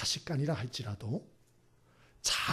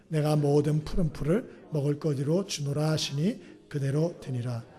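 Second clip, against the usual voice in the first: scripture reading; 4 dB louder than usual. Acted. Congregation reads scripture together.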